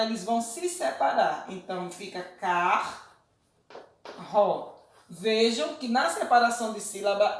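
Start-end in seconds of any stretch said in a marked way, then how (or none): 2.4-3.0 CAR-RO with a long pause between syllables; split into syllables. Shown as a demonstration. Teacher shows pupils how to divide the word, split into syllables. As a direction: say car-ro broken in two, slowly.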